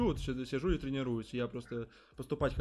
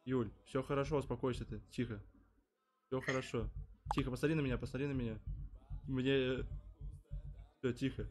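soothing; 3 semitones lower, 6 dB quieter than usual. Acted. Calming the upset friend.

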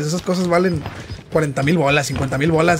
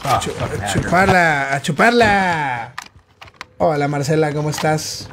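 sultry narrator; 2 semitones lower, slower than usual. Pretend. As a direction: purr it out seductively. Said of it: "yo hablo con esta voz sensual, suculenta y sexy".

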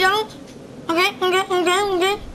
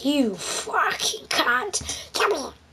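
Donald Duck voice; 5 dB quieter, much slower than usual. Acted. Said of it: "I'm doing a Donald Duck video".

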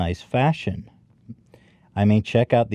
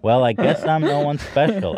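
higher coy sultry voice; sexy voice; 6 semitones higher than usual. Pretend. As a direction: purr it out shyly. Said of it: "I hear you say in a sexy voice".

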